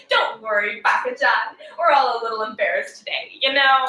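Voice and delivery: cheery, forward class president voice; bubbly overeager schoolgirl; preppy girl. Acted. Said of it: "Preppy Girl on cocaine".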